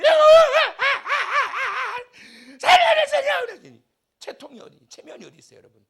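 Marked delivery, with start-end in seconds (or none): 0.0-3.4 very high, very loud shouted plea; hammed-up king wailing before his servants; desperate yell. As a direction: scream for help to God. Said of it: "신하들이 보는 앞에서".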